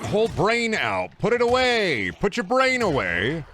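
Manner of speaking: slow, high singsong at the screen; high mocking coo, drawn out; high teasing voice. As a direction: tease it like scolding a pet.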